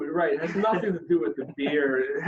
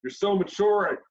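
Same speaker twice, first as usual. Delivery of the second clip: mocking a parent; 5 semitones higher, slower than usual. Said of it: "It was like".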